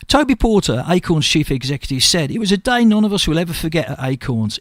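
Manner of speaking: local radio news item, read out evenly. Real, not acted. Radio host tells listeners of royal hospice visit, news read. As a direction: read the charity story out to listeners. Reads out the chief executive's statement.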